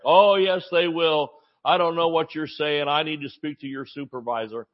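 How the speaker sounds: insist, then demand the supervisor; huffy. Retold or imitated. Father demands the clerk's supervisor, mock indignant. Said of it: "he got a little huffy".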